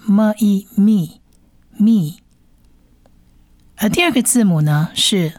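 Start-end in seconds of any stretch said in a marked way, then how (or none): 0.0-2.2 "么", "一", then joined as "咪"; blending sounds. Shown as a demonstration. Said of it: "所以是么一咪". (拼读示范：“么一”合成“咪”)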